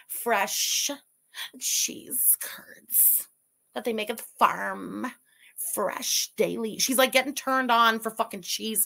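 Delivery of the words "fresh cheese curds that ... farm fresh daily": half-whispered mock imitation of her, drawn out; mocking her breathy voice. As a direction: drag it out like she's swooning over cheese. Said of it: "I hate when she's talking like this".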